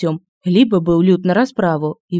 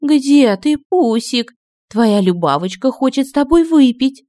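a higher, calling hag voice; witch calling; 6 semitones higher than usual. A narrator's reading. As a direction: coax him to come drink. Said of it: "донеслось призывно от стола".

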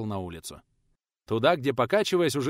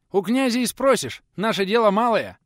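high, loud cheeky answer through a grin; grinning retort; 11 semitones higher, 9 dB louder than usual. Acted. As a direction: brush him off with a toothy grin. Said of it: "Оскалился Стенька".

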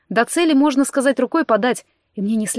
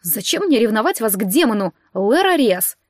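sneering fake sweet. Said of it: "язвительно добавила".

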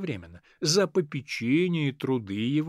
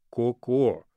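tender; 4 semitones lower than usual. Acted. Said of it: "сколько нежным голосом".

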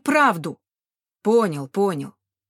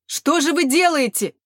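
higher, louder wail; 6 semitones higher, 5 dB louder than usual. A narrator's reading. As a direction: wail it harder, rising in despair. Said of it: "запричитал мужчина". (причитание, громче и выше)

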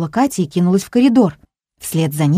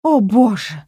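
alarmed gasp, a bit louder; shocked grandmother crying out; 6 semitones higher, 3 dB louder than usual. A narrator's reading. Grandmother gasping at the boy eating dog food. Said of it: "ахнула Любовь Михайловна".

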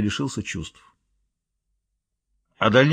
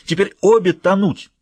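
much higher, slow then loud accusing bark; angry roar; 8 semitones higher, 4 dB louder than usual. Acted. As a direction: snap at the two witches. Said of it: "рявкнула".

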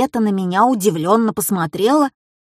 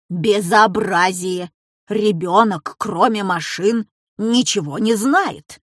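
indignant. Acted. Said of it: "возмутилась бабушка".

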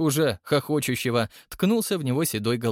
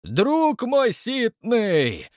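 loud, slow drawn-out shout; joyful roar; 11 semitones higher, 4 dB louder, much slower than usual. A narrator's reading. Old man bellowing a greeting at his friend, slow and loud. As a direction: bellow it with open arms. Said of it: "взревел Егор Кузьмич".

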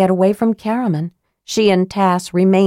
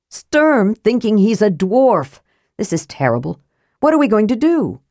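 mildly despairing; 4 semitones higher than usual. Acted. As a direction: fret in despair. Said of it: "He looked desperately unhappy".

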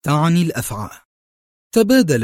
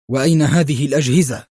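tense; faster than usual. Acted. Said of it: "سأله أحدهم في توتر".

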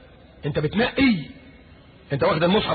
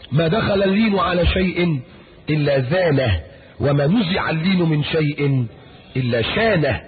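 slow solemn recitation; slower than usual. Real, not acted. Reciting hadith slowly.

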